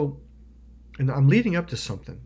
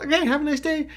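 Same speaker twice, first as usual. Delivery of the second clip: high, chirpy mock-friendly goodbye; smiling pleasantry; 4 dB louder, faster than usual. Friend leaving after his outburst, smiling pleasantry. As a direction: say it brightly with a smile. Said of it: "and he smiled".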